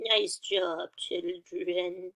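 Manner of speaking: put-on quavering old person's praise; little old voice. Shown as a demonstration. Teacher praises the children, still in the old voice. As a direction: praise them like an elderly teacher. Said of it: "In a little old voice".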